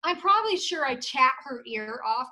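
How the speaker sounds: loud, excited gushing; genuinely excited. Real, not acted. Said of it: "I'm so darn excited".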